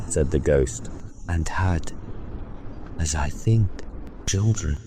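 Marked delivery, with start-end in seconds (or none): 1.3-4.8 ghost's voice. Acted. Ghost speaks.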